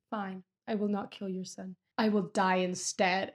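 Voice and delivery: understated, resigned surrender; retold heartbreak. The Count yields to Mercedes, mildly heartbroken. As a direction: give in heavily, with pauses. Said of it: "Edmund is so heartbroken".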